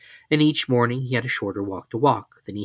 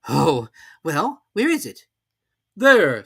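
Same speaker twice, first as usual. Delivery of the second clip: higher story voices; character voices; 6 semitones higher, 8 dB louder, slower than usual. A narrator's reading. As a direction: swap into the characters.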